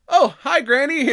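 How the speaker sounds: high, loud sing-song greeting; bright fake-friendly hello to the neighbor; chirpy mock greeting. Baby cheerfully greeting the old lady after the kill, high and loud.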